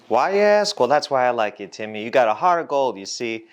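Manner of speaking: put-on butter up the worker, old-time style; 1950s boss talk. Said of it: "Stop talking like you're from the fifties".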